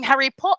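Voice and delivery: "Harry Po-" with a British vowel and no r; clipped-off British "Harry Po-"; non-rhotic British pronunciation. Shown as a demonstration. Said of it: "stopped pronouncing the R's".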